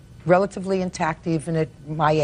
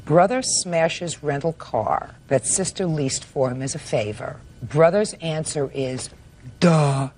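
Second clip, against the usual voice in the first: reading her note; 3 semitones lower, slower than usual. Shown as a demonstration. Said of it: "the little notes that I made".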